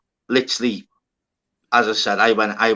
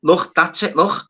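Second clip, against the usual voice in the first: flipping out; 4 semitones higher than usual. Retold or imitated. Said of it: "I used to be flipping".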